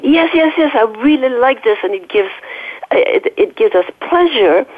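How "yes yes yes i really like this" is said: lightly acted, higher-pitched eager little animal; pleased inner animal. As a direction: voice the body's pleasure, playfully. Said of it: "this little animal inside of us is saying".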